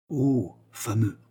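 slow, drawn-out delighted approval; admiring exclamation. A narrator's reading. Accomplice applauding his uncle's scheme, admiring exclamation. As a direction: savour it with naive admiration. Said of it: "s'écria Rocambole".

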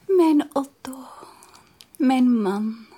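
tender whisper. Acted. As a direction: lean in and whisper. Tender with fiancé. (teder fluisterend)

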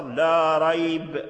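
ريب stopped with the ي held short in a chanted tone; chanted Quranic stop. Shown as a demonstration. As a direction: clip the ي in ريب on the pause. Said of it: "تقف إما بالقصر".

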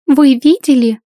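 staged gasp of alarm. Acted. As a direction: fake shock for the onlookers. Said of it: "Стейси охнула".

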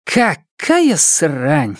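slow, drawn-out disgusted exclamation; exclaiming woman guard. A narrator's reading. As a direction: draw it out in disgust. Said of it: "воскликнула женщина".

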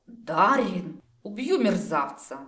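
loud, furious outburst; angry growl. A narrator's reading. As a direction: roar it like you're about to pounce. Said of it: "прорычала девушка".

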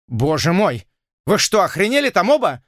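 a scared colonel crying out; frightened exclaim. A narrator's reading. Bishop panics at both men, loud frightened cry. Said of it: "воскликнул Бишоп, задрожав от страха".

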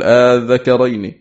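آذكرين opening on a long drawn "aa", second hamza softened; eased second hamza. Shown as a demonstration. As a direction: slowly recite آذكرين, stretching its first vowel. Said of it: "سهل همزة الوصل التي بعد همزة الاستفهام". (آذكرين بتسهيل الهمزة الثانية)

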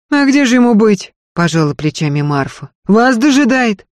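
earnest servant woman begging, high and loud; Marfa's pleading voice. Acted. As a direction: beg her mistress not to leave, pressing hard. Marfa shrugs, answers.

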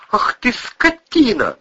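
high, slow furious yell; shouting. A narrator's reading. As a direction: scream it at him. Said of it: "закричала госпожа Бонасюк".

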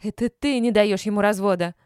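angry accusation. A narrator's reading. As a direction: hurl the blame at her.

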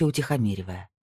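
plain reading voice

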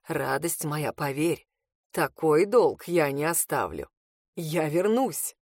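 calm a frightened lover; Reed, gently. A narrator's reading. Reed reassures her he will return, low and gentle.

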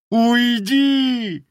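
wailing howl. Acted. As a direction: howl him away in despair. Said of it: "провыл".

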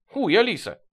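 high aggrieved howl; sulky, wounded cry; hurt wail. A narrator's reading. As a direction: wail it in offence. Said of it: "обиженно завыл я".

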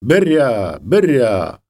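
drawn, falling herding cry; shouted sheep call. Retold or imitated. Neighbour Mykhailyna crying to sheep from uphill, imitated herding call. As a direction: imitate a shepherdess calling out from the hill. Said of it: "то викрикувала".

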